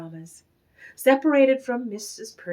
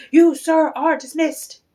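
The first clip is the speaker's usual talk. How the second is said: angry dismissal; 6 semitones higher, 8 dB louder than usual. A narrator's reading. Manager fires Valenti.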